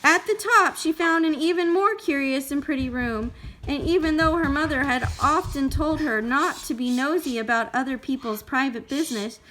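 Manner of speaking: put-on measured storytelling for a small child; story read-aloud. A narrator's reading. Parent reading Goldilocks to a child, expressive storytelling.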